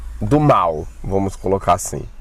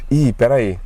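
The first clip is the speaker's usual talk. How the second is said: higher, frantic retold panic; scared disbelief, voice raised in pitch; panicked inner thoughts; 5 semitones higher than usual. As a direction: replay the moment you realise you've been left alone. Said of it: "Aí eu fiquei pensando".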